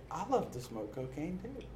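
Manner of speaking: amused, eager echo; laughing eager agreement. Retold or imitated. Newcomer answering Justin, laughing. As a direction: join in, laughing.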